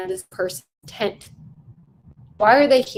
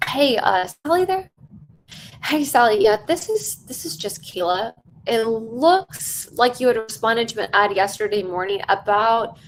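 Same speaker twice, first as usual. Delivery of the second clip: curious sales call. Shown as a demonstration. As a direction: ask as if you truly want to know. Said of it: "let me do that one more time".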